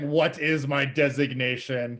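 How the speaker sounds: put-on slow, loud, childlike giant robot; a newborn giant speaking slowly and loudly; booming voice. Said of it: "booming voice".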